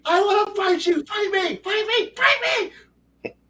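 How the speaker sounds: hammed-up player pestering the giant, rising to a squeal; escalating taunt.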